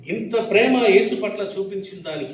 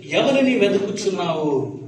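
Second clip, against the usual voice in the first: Jesus asking gently. Retold or imitated. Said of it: "ఆయన అన్నారు యేసు".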